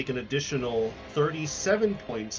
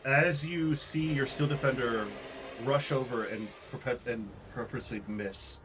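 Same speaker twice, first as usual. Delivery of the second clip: building suspense, some lines faster; dramatic scene narration. A narrator's reading. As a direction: narrate the monster's attack. GM describes the explosion.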